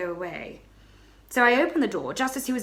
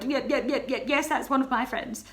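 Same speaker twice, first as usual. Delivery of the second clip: stammering; 5 semitones higher than usual. Acted. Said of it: "so I just stammered".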